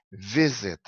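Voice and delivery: "visit" said as VI-sit, first syllable stressed. Shown as a demonstration. Teacher showing how the verb is pronounced, "visit" stressed on VI. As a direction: model "visit" with the weight on VI. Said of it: "O verbo é pronunciado assim".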